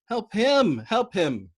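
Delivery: high, loud pleading cry; wailing plea. Acted. Dobbs begs Yossarian to help the gunner, wailing. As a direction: beg at full voice. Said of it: "Dobbs swept".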